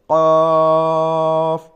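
very loud, long heavy কফ from the tongue root; heavy Arabic letter. Shown as a demonstration. Teacher showing heavy কফ for students. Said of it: "আপনি আমার সাথে পড়েন".

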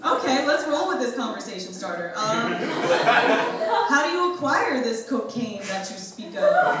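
slow, laughing faux-polite question; mock formal politeness. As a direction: play it overly proper to hide shock. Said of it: "retold own reply".

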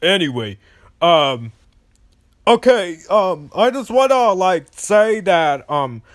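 talking through a nosebleed; blocked nose from bleeding. Real, not acted. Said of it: "I just doing that voice because I got, like, I got my nose ble-, my nose is bleeding".

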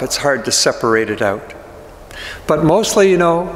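lightly acted grieving disciple, close to own voice; Peter in character. Grieving disciple confiding in the congregation, lightly voiced and subdued. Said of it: "I'm going to try to get into the character of Peter".

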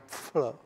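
"pfl" as one vowelless puff of consonants; consonant cluster only. Shown as a demonstration. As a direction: squeeze "pfl" into a single sound. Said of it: "Já bych pak říkal jenom".

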